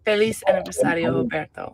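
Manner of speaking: self-mocked Spanish accent on a birthday greeting; Spanish accent attempt. Shown as a demonstration. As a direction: try out a Spanish accent, knowing it's bad. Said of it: "That's a horrible accent".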